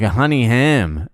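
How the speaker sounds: Aussie repeating an order, laid on thick; thick Australian accent. Acted. Repeating the order to the sandwich man, thick Australian accent. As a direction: play up the Australian accent a little. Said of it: "I'm throwing it on pretty fucking thick".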